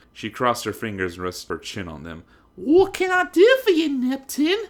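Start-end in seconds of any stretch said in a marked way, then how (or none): 2.6-4.7 haughty heiress greeting. A narrator's reading. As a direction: greet her rival from on high. Weiss flirting.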